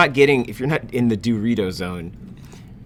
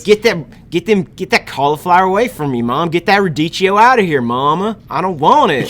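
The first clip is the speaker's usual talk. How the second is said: put-on high, loud bratty kid yelling at mom; whiny rich gamer kid; 5 semitones higher, 4 dB louder than usual. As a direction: throw a spoiled tantrum at Mama. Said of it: "New character, Rich Gamer Team".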